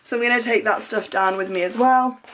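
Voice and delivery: breathless after running upstairs; panting between words; out of breath. Real, not acted. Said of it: "I don't know why I'm so out of breath".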